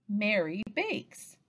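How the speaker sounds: slow, two separated words. Shown as a demonstration. Teacher moves a counter per word, word by word. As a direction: say each word on its own, slowly. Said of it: "move each counter forward as they say each word".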